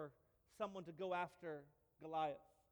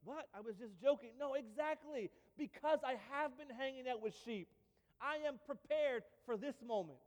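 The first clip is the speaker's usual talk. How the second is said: higher, bright and earnest; a boy proving he is ready; young David answering the king, higher and keen; eager young David; 5 semitones higher than usual. Retold or imitated. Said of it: "And I can see David".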